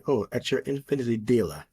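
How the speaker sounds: lightly imitated British car-ad voice; a touch of British ad announcer; British accent. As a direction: mimic a British luxury car commercial. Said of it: "that was the voice accent that they would use".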